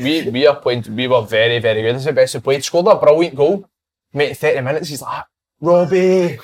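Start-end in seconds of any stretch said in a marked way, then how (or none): 5.6-6.4 lightly mimicked pained plea. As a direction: call out higher, imitating a teammate in trouble. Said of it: "he's got quite a posh accent".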